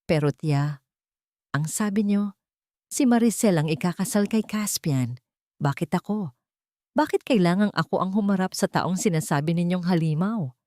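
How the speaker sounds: a touch of a frightened tremble, barely voiced; understated scared young maid, almost whispering; trembling near-whisper. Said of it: "Ang boses ni Tala ay nanginginig. Halos pabulong".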